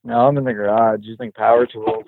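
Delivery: sounds like a chorus effect on the line; echoey. Real, not acted. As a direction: speak from a big echoing garage. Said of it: "There's also a crazy echo on you".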